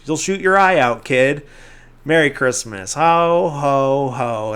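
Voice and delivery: hint of a department-store Santa sending a kid off; mock Santa. Santa dismissing Ralphie from his lap, lightly mocking Santa voice. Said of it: "Santa just looks at him and says".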